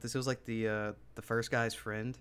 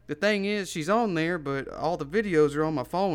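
louder imitation of an owner explaining; retold dog owner; 4 semitones higher, 6 dB louder than usual. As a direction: lightly voice the stranger's excuse. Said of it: "And then he's like".

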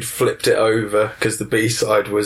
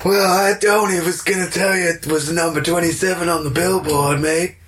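hammy American impression, pitched up; American accent; 5 semitones higher than usual. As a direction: put on an American politician's accent. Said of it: "in your American accent".

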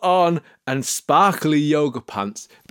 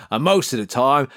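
ordinary talk

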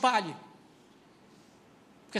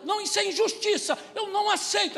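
higher, louder indignant cry; outraged objection, pitched high; indignant protest; 10 semitones higher, 4 dB louder than usual. Retold or imitated. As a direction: protest the injustice hotly. Voicing the tough one protesting.

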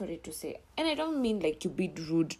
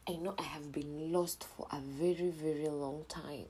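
hushed apology; 4 dB quieter than usual. Real, not acted. Apologizing for absence.

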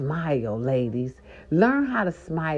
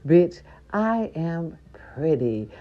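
self-affirming; slower than usual. Shown as a demonstration. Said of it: "think of something pretty".

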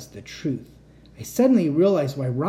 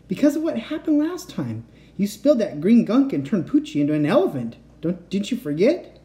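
put-on higher boy's voice; 5 semitones higher, 3 dB louder than usual. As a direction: voice the nervous friend higher. The speaker voiced, far and high.

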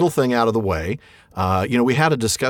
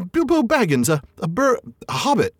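high, stammering hobbit voice; frightened Bilbo; 11 semitones higher than usual. Acted. Bilbo caught by the trolls, stammering high in fright. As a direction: stammer it out like a terrified little hobbit. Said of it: "said poor Bilbo, shaking all over".

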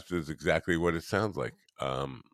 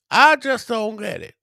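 exasperated; 8 dB louder than usual. Real, not acted. Exasperated at a baffling comment.

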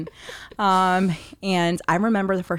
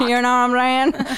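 louder, laughing emphasis; 6 semitones higher, 6 dB louder than usual. Real, not acted. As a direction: repeat it louder with a grin.

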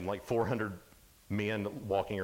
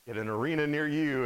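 monster truck ad; 3 semitones higher, 4 dB louder than usual. Retold or imitated. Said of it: "Like the monster truck commercials".

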